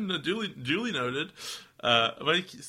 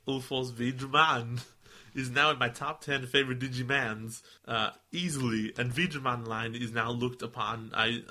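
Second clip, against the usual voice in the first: a hint of Arnold Schwarzenegger; Arnold Schwarzenegger impression. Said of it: "You just went Arnold Schwarzenegger".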